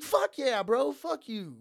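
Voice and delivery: high, loud, emphatic brush-off; retold loud comeback. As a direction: throw it back at him loudly. Retold answer to the drunk customer.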